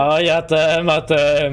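silly put-on voice. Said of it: "tak mówię specjalnie".

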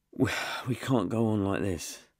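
a touch of heaviness, understated; mildly heavy and defeated. Acted. Maxie admitting defeat, mildly heavy voice. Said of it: "Her voice was heavy".

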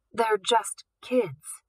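slow, gentle plea; guard softly pleading with director. Acted. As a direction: say it softly and slowly. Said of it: "one of the guards said softly".

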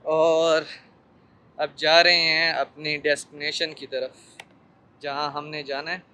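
muffled behind surgical mask; speaking with covered mouth; through a face mask. Real, not acted. Seen 1: Surgical mask covers mouth and nose throughout labelled speech.

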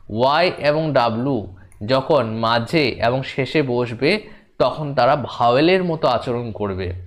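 slow, word by word, with phrases repeated; slow dictation. Real, not acted. Teacher dictating a rule into pupils' notebooks, slow and measured. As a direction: dictate it slowly enough to be written down.

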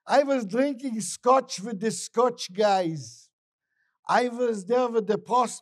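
high, loud bragging; acted proud traveler; boastful. Traveler boasts of his trip.

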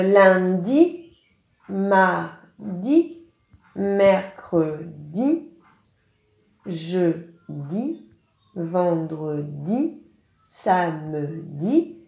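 slow, drawn-out weekdays, the last syllable of each stressed; slow teacher's reading of the days; days named slowly. Shown as a demonstration. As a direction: say each day slowly, leaning on the final sound. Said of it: "les jours de la semaine".

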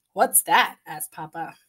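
expressive storybook reading; reading to children. A narrator's reading. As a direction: read it like bedtime story time. Reading picture book aloud.

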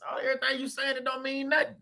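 breathy unvoiced brush-off in court; whispered dismissal. Imagined spouse in court whispering a dismissive brush-off. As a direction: whisper it like nothing matters. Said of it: "you standing up like".

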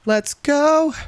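high-pitched gamer hype; hype cheer. Real, not acted. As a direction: let it rip like you just won. Celebrating a win.

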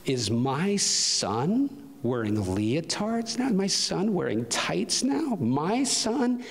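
drawn-out, rising, incredulous taunt; dad's mocking disbelief. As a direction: imitate a father scornfully ridiculing his child, pitch climbing. Dad mocking crying son in story.

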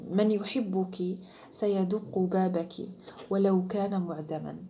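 slow, weighty proverb; quoted saying, slow. Shown as a demonstration. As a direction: lay out the proverb slowly. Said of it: "العباره هكايا".

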